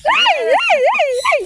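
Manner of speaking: squealing, laughing under tickling; being tickled. Real, not acted. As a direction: shriek and giggle while tickled. (tili at tawa habang kinikiliti)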